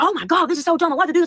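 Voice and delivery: put-on high, whiny teenage complaining; mock whiny teens. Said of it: "like, yelling at me".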